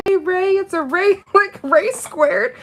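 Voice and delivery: coworker's greeting. Retold or imitated. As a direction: shout it like a friend across the clinic. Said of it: "She's like".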